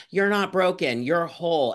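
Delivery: a preachy online pep talk, lightly mocked; imitating upbeat advice. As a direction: chirp it like a positive influencer. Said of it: "I'm on the internet telling people".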